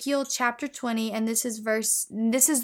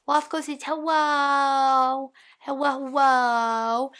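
put-on baby talk for the dog; 2 semitones higher, 4 dB louder, slower than usual. Talking to the dog in a slow, sing-song baby voice. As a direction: coo a greeting on the dog's behalf.

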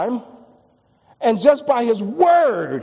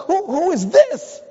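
awestruck; 10 semitones higher, slower than usual. Retold or imitated.

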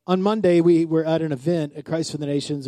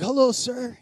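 respectful greeting; 5 semitones higher than usual. Retold or imitated. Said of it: "I was like".

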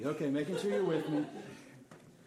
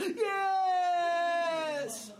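put-on higher, louder stammering child voice; crying toddler; 13 semitones higher, 7 dB louder than usual. Daughter confessing to dad: imitated crying child. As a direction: stutter through tears like a little girl.

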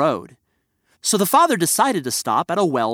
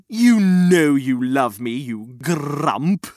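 teasing; slower than usual. Acted. Teasing the grump.

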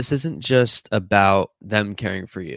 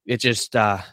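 blocked nose; talking through a stuffy nose. Real, not acted. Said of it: "sorry, I'm stuffy".

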